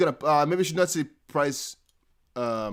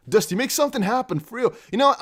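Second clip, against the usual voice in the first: excited; 10 semitones higher, 5 dB louder than usual. Real, not acted. Streamer hyping himself to make price move.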